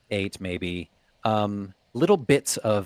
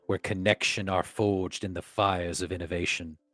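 grand theatrical declamation; hammy stage actor. Acted. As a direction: proclaim like a herald. Reads in Shakespearean English.

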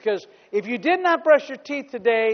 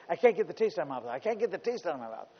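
raccoon voice; 5 semitones lower, 10 dB quieter, much faster than usual. Retold or imitated. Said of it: "he starts saying".

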